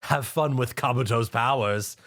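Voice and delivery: slow, smug, sinister villain voice; gloating villain. Acted. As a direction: taunt the victim you have tricked. Narrator voices villain impostor.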